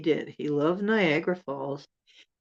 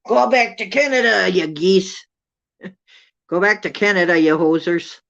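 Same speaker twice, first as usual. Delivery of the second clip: mock yell; 3 semitones higher, 7 dB louder than usual. Teasing shout at geese.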